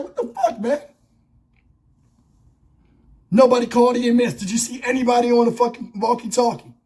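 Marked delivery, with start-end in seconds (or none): 0.0-0.8 high, laughing mock shock; imitating a stunned officer with a laugh; mock disbelief. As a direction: squeal it like a cop caught off guard. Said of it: "you're like".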